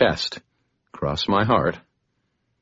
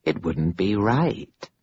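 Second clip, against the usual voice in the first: mocking; 2 semitones higher, slower than usual. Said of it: "mockery in her tone".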